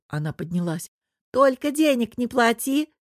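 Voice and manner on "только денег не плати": Anya shouts across the whole hall, raised and higher; yelling across hall. Acted. Anya yells across the café hall to Vera going for tea. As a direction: call it out so the whole room hears. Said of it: "орала на весь зал Аня".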